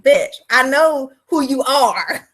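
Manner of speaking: slow, drawn-out sassy retort; very slow mock retort to a client; sassy comeback. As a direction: drag it out to put her in her place. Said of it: "And I be like".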